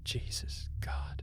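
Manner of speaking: slow, breathless whisper; horrified whisper. A narrator's reading. Narrator finding the bedroom scene, whispering in horror.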